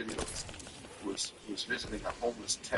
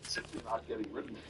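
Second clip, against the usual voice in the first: whispering; 7 dB quieter than usual. Acted. Mock threat to viewers.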